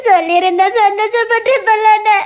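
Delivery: sing-song crying plea; tearful, half-smiling lament; laughing through tears. Acted. Sister tearfully reproaching brother. (அழுகை கலந்த சிரிப்புடன் புலம்பல்)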